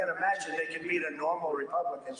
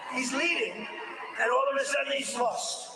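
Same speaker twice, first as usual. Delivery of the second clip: incredulous laughing outburst; 4 semitones higher than usual. Real, not acted. Telling the crowd how Pratt lost, laughing disbelief. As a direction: burst out laughing that he was leading then lost. Marvelling at the candidate's collapse.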